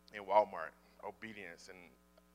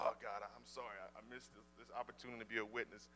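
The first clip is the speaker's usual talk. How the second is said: quiet retold apology; 13 dB quieter than usual. Retold private apology to God.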